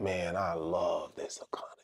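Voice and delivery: soft unvoiced whisper; whispered aside. Someone elsewhere loving the economy, whispered. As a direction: breathe it like a secret. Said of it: "somebody somewhere in the world saying".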